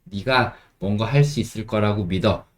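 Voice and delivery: usual speaking voice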